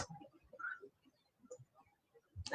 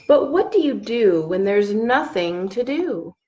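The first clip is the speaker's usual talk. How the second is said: put-on reading to children; 3 dB louder than usual. Reads picture book aloud.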